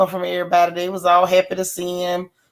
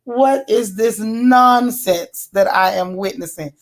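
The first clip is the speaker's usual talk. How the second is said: mock disbelief; slower than usual. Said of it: "I was like".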